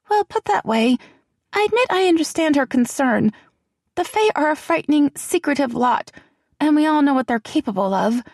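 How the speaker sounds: put-on high, hushed and anxious young woman; a nervous friend fretting in a half whisper; frightened young woman. A narrator's reading. Celianne, prim.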